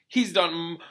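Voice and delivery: groaning. A narrator's reading. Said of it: "groaned Hagrid".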